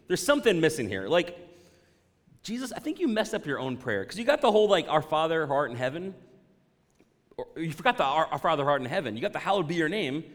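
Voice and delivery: mock indignant. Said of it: "you're thinking".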